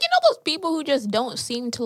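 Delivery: ordinary talk, nothing marked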